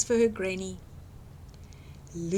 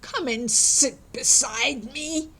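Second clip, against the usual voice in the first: a hint of growl; growling wolf; 2 semitones higher than usual. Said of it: "growled the wolf".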